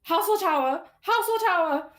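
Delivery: loud, high urgent yell; high-pitched in-character shout; screaming at others. Acted. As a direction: scream it out to the group. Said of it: "She's, like, screaming at the rest".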